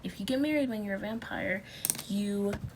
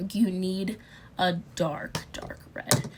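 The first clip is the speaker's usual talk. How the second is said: whispering; 3 semitones lower than usual. Real, not acted. Whispered dramatic aside.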